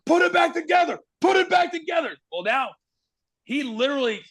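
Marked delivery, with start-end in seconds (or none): 0.0-2.1 much higher, urgent retold yell; a producer panicking in an earpiece. Kevin Dunn yelling at his host through the earpiece, higher urgent yell. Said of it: "is screaming in my ear".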